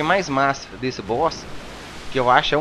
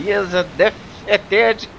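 announcer voice; 4 semitones higher, much slower than usual. Pretend. Mock game announcer after win.

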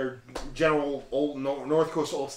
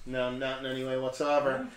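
dry deadpan sarcasm; sarcastic; 2 semitones lower, 4 dB quieter than usual. Acted. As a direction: say it with a dry, mocking edge. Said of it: "That's sarcasm".

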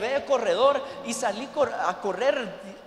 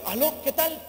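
higher, alert phone hello; wide-awake greeting; 6 semitones higher than usual. Acted. Pastor answering a night call, acting wide awake. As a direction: sound fully lucid on picking up. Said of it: "contesta todo lúcido".

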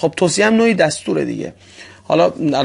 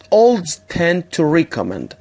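very slow, every word apart; slow model reading; much slower than usual. Shown as a demonstration. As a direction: model the verse slowly for students. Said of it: "مفهوم این ورس هست". (خواندن آهسته برای تکرار شاگردان)

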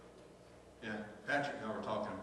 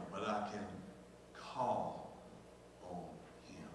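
hushed; 3 semitones lower, 7 dB quieter, slower than usual. Acted. Pastor urging prayer, voice drops.

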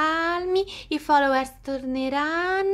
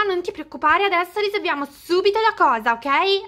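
panicky; 3 semitones higher than usual. Acted. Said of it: "ma è nel panico!".

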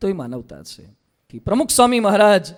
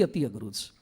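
અતિ અઘરું છે dropped much softer and lower; hushed emphasis; 11 semitones lower, 12 dB quieter than usual. Shown as a demonstration. Preacher stressing to listeners how hard it is, much softer. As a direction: let અતિ અઘરું છે fall away softly for weight. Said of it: "અતિ, અતિ".

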